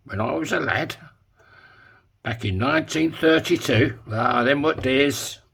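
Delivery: lightly voiced old Yorkshireman remembering the good old days; mock old-timer. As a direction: drawl it out like a grumpy old granddad.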